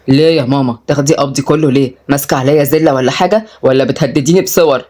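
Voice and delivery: low, mildly indignant questioning; protesting suitor. Acted. Suitor objects to handing over his salary, protesting.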